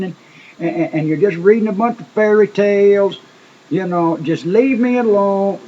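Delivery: hammed-up angry scoffing at a preacher; angry retort. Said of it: "He would get mad and say".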